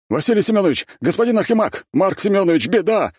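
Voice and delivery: high, loud panicked calling out; yelled alarm. A narrator's reading. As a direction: bark out the alarm to the bosses. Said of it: "гаркнули они".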